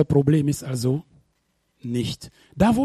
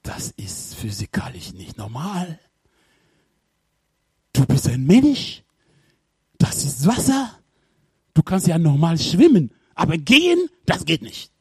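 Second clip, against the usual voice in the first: voice of reason; 2 semitones lower than usual. Acted. Reason talking Peter out of walking, lightly voiced doubt. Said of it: "sagt ihm eine Stimme".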